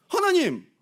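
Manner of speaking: high, loud outcry to God; anguished cry. Retold or imitated. Moses cries out to God, exasperated. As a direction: call up to heaven in frustration.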